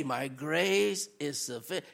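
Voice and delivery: low, soft answer; hushed reassurance; low, soft voice of God's promise; gentle divine reply. Retold or imitated. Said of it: "Perils in the city".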